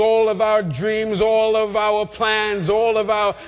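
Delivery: rhythmic preaching building to a cried-out peak; preacher in full flow, stretching key words; impassioned preaching. Real, not acted. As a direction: hammer each repeated phrase, rising in fervor.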